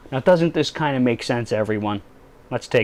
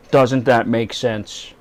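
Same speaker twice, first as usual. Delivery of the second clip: slow rhetorical; much slower than usual. Shown as a demonstration. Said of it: "repeated rhetorical question".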